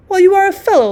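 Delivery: loud and high, laughing it out. A narrator's reading. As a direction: tease the newlywed with a laugh. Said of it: "laughs Pyotr Petrovitch".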